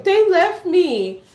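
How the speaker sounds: put-on slow, high-pitched childish wail; mock crying. Crying girl to mama about siblings, imitated wail. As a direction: wail it like a tearful little kid. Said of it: "I'm still in the house crying".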